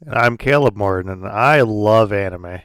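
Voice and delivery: changed voice. Pretend. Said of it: "your voice has changed".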